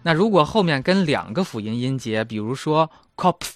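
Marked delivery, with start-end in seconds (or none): 3.2-3.5 "Kopf" with an open, short o. Shown as a demonstration. Teacher shows the rule, "Kopf" with open O. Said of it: "就是开口的O".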